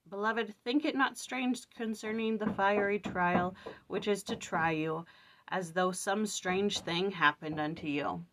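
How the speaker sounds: slow, measured verse reading; scripture reading. Acted. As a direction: read the verse slowly, like from the pulpit.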